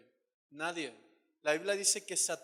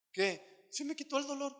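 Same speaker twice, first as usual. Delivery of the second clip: higher, astonished voice; amazed; 8 semitones higher than usual. Retold or imitated. Healed person amazed telling preacher the pain left. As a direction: marvel that the pain is gone.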